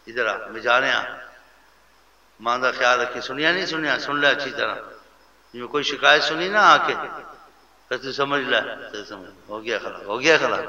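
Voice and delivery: mock bossy warning, rising in pitch; lightly hammed-up threatening orders; harsh scolding. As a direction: imitate someone laying down the law at home. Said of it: "ایسے نہیں کہنا چاہیے".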